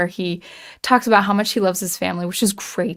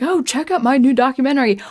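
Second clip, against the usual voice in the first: mildly excited mock plug, a little higher-pitched; Matt Walsh excited; 5 semitones higher, 3 dB louder than usual. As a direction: imitate restrained excitement with slightly lifted inflection. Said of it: "a little higher pitched voice".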